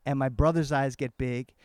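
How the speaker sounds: drawn-out, suspenseful telling; slow motion. Shown as a demonstration. Man recalling his uncle's alarm at sea, slow-motion telling. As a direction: stretch it out like a slow-motion memory. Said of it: "into slow motion".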